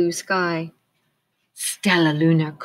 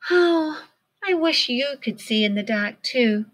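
higher, gentle wishful voice; Stellaluna wistful; 7 semitones higher than usual. A narrator's reading. Stellaluna wishing her friends could see, gently wistful. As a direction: sound a little longing.

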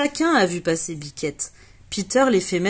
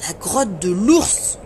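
cry; 3 dB louder, slower than usual. Acted. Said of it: "crie Peter".

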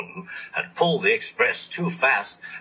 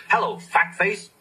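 cheeky greeting; 8 semitones higher than usual. Acted. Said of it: "whistled Henry".

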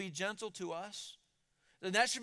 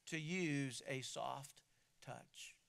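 soft touch; 4 semitones lower, 6 dB quieter, much slower than usual. Shown as a demonstration.

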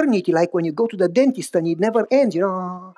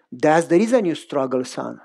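put-on old grandfather; 5 semitones lower than usual. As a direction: speak as the wise old grandpa. Grandfather voiced in story.

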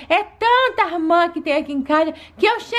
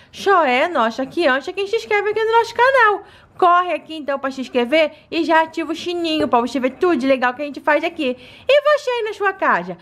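cartoon princess; 3 semitones higher than usual. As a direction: sweetly invite kids to subscribe. Doll addresses viewers.

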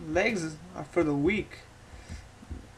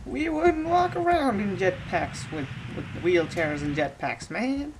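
put-on old man voice. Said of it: "speak like an old guy".

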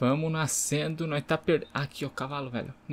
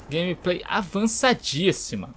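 higher, slow mocking sarcasm; sarcastic; 5 semitones higher than usual. Real, not acted. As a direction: drag out avançadíssima mockingly.

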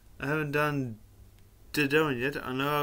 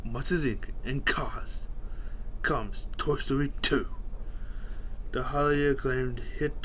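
movie trailer narrator read. Shown as a demonstration. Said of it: "in my trailer voice".

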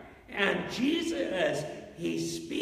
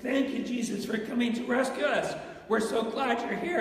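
mock-glad, a bit higher in pitch; happy disciples; 4 semitones higher than usual. Disciples greeting Jesus as he comes to rescue them, happily. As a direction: play mildly overjoyed, relieved followers. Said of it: "they were just so happy".

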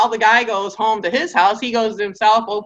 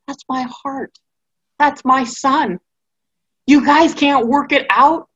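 pleading mother; 5 semitones higher than usual. Retold or imitated. Sarah voiced, pleading over Lot.

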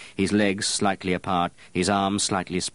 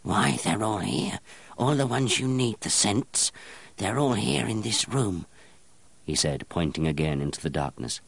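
strange crowing gnome; 4 semitones higher than usual. Acted. Apprentice naming scents in the dark room to the perfumer, crowing. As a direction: point them out one by one, gleeful.

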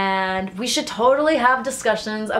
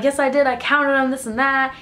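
sassy retort; 4 semitones higher, 3 dB louder than usual. Retold or imitated. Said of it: "And then she's like".

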